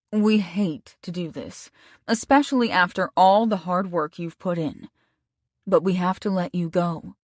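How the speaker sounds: lightly voiced sombre boss; a hint of a regretful employer breaking bad news. Bosses letting Stacy go, lightly voiced and sombre.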